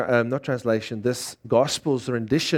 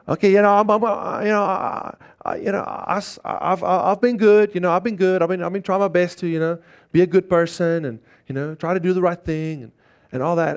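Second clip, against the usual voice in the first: higher, hesitant excuses mimicked; mock excuse-maker; 5 semitones higher than usual. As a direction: lightly play a stammering self-justifier. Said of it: "coat everything with a little Christian sauce".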